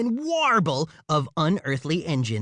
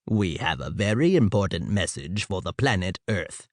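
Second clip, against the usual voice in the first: mechanical voice; 10 semitones lower than usual. A narrator's reading. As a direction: speak like a machine-like alien. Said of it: "the alien said in a mechanical voice".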